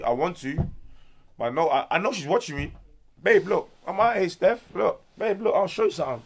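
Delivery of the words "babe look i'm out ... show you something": talking straight to camera to Steph, eager and up; calling out to Steph. Real, not acted. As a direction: hype yourself up to win her over.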